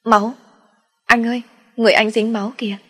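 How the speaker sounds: high, fast frightened cry; panicked cry. A narrator's reading. Little brother seeing blood on his brother, panicked cry. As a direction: blurt it out in a panic. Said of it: "nó hoảng hốt kêu lên".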